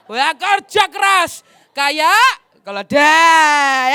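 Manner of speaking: stretched, loud cry of kerja keras kayak keledai; preacher bellows the donkey comparison slowly; slow shout. Shown as a demonstration. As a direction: drag out and yell like an exhausted worker. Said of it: "repeats phrase shouted slowly".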